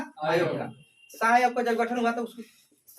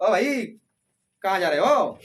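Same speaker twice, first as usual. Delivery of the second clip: mild Haryanvi call, a little louder; Haryanvi way of talking; 4 dB louder than usual. Retold or imitated. Teacher showing students how Haryanvi speakers talk, light Haryanvi call. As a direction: hail a friend Haryanvi style, lightly done. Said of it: "ऐसे बोला जाता है ना?".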